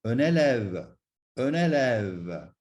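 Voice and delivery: "élève" ending on the v, final e only a faint release; silent final e. Shown as a demonstration. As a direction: let "élève" end on its v after a long open eh. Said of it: "it is silent".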